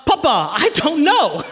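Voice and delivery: imitating a wife calling back; mild mock yell, drawn out; retold yell back. Wife answering husband from another room, mild mock yell. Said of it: "she yells back".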